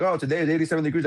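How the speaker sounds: fast, breezy robot-assistant read; mock Siri voice. Friend imitating his phone assistant, fast and breezy. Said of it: "And he'll be like".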